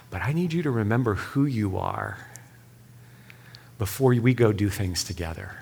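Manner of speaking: softly reassuring fatherly voice; gentle father. Retold or imitated. The Father reminding his son who he is, gentle. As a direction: ask tenderly, then reassure quietly. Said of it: "the father so gently says".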